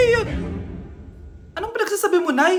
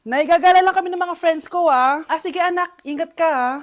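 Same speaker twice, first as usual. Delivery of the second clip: quiet, lower, prim and gentle; soft demure voice; 5 semitones lower, 9 dB quieter than usual. Acted. Mother and child in the demure trend, softly.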